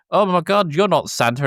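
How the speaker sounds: put-on high, excited gasp of a girl; little girl imitated discovering Santa is fake; freaking out little girl. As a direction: mimic a kid's shocked outburst. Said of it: "freaks out and is just like".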